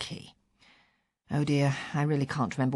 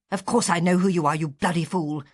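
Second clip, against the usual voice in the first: rasped. Retold or imitated. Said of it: "I rasped".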